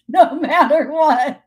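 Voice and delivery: laughing, slow; real laugh, breaking to silent laughter. Real, not acted. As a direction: chuckle the words out. Laughing at arguing with her.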